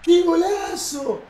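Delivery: very high, loud screamed celebration; ecstatic goal scream. Real, not acted. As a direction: scream it high, stretch it, gradually easing. Festeja golazo de Román. (grito de golazo desaforado, agudo y alargado)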